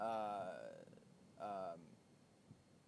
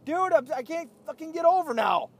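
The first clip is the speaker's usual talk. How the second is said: laughing; 14 semitones higher, 13 dB louder than usual. Real, not acted. Laughing after cutting off driver.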